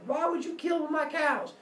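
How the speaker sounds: high-pitched mock yell, no real volume; hammed-up accusing cry. Apollo yelling at the sleeping mother, accusing. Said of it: "he starts yelling at the lady".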